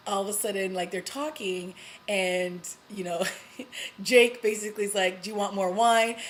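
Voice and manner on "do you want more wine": louder, pointed offer meant to be overheard; loud on purpose. Retold or imitated. Jake making sure Fitz hears him, a loud pointed offer. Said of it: "he says it loud enough".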